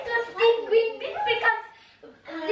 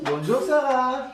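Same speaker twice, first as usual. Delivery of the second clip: playing papa; 7 semitones lower than usual. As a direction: lower put-on papa voice. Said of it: "Bonjour, papa".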